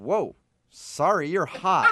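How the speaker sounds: very slow, dumbstruck, stunned deer-in-headlights tone. Retelling how the driver reacted, like a deer in headlights: imitating a stunned man. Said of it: "like a deer in headlights".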